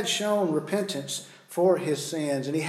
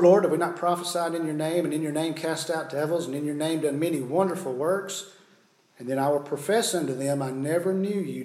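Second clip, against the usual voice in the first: fast scripture quote, preached; preaching; faster than usual. Acted. Quotes Jesus's words at judgment.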